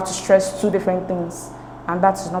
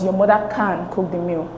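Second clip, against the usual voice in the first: "Your mother can cook the meal", CAN picked out; emphatic stress on CAN. Shown as a demonstration. Person answering a doubter, emphatic stress on "can". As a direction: put the emphasis on "can" to confirm she can. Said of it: "to show that yes, indeed she can".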